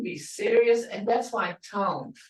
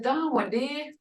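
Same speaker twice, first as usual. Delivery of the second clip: concerned asking tone; 5 semitones higher than usual. Retold or imitated. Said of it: "You know".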